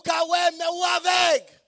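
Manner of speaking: loud, high declaration; loud high preached verdict; shouted scripture. Acted. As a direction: cry it out like Jesus' verdict. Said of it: "Il dit".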